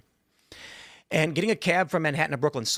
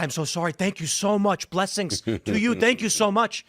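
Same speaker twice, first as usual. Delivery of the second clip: grateful cabbie; 5 semitones higher than usual. Retold or imitated. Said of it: "He turned around shocked and said".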